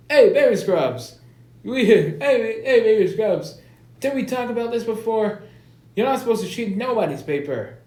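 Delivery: high, loud mock African American accent. Principal calls out Baby Scrubs for cheating, African American accent. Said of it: "Time for African American accent now".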